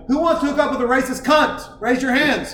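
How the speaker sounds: retold yelling. Comedian calling out to a crowd about her, mock yell. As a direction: pitch it up like polling a crowd. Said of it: "just yell at people".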